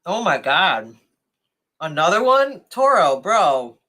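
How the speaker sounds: high, loud shocked outburst; stunned by another donation; surprised exclamation. Real, not acted. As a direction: blurt it out in disbelief.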